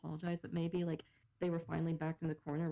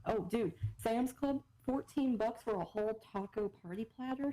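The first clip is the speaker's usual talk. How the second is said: excited hype; 4 semitones higher than usual. Real, not acted. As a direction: sell the bargain. Hyping cheap deal.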